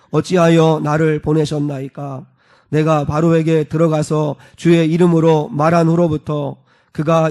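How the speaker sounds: slow, measured formal recitation; solemn, steady Bible-reading voice; scripture reading. Acted. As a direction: read the verses aloud deliberately for a congregation.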